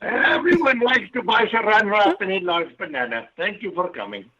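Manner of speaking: put-on Indian accent; mock Indian-accented sales patter. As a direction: play a caricature Indian shopkeeper. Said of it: "it's a great accent".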